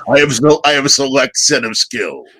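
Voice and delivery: a mock movie villain on the phone; prank caller menace. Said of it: "I would make prank phone calls".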